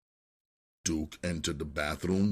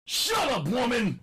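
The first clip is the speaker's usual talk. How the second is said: much higher, loud furious yell; angry yell; 4 dB louder than usual. A narrator's reading. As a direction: bark him into silence. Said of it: "Duke yelled".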